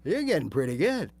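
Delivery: a light, encouraging inner coach; upbeat brain voice. Acted. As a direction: cheer yourself on as your own brain. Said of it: "now my brain's going".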